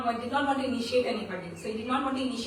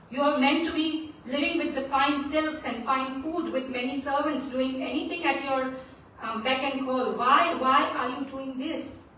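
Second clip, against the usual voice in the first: somewhat raised, dismayed pleading; crying out; 4 dB louder than usual. Acted. Guru questions the prince doing menial work, crying out in dismay. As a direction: implore him, leaning hard on each why. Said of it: "He cried out loudly".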